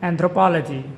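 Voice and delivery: anthropology, stressed on the third syllable; model pronunciation. Shown as a demonstration. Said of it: "The word in this video is".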